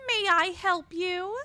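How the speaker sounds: a meek English maid answering the door; timid maid. Acted. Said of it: "That's an excellent maid voice".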